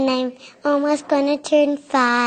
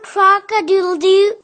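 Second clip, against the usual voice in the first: rooster crow; 4 semitones higher, 4 dB louder than usual. Retold or imitated. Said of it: "I will make a sound".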